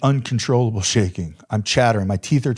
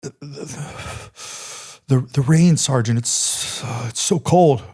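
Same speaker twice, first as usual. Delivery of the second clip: stammered through chattering teeth, halting; imitated teeth chattering; 3 semitones higher, slower than usual. Soldier freezing in the rain, answering his sergeant, stammering with chattering teeth. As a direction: stutter it out like you're freezing. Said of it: "teeth chattering".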